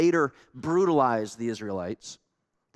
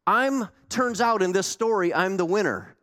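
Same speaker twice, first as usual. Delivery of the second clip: lightly voiced bragging prophet; boastful Jonah; 4 semitones higher than usual. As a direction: gloat like the proud winner. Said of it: "Why wasn't Jonah like".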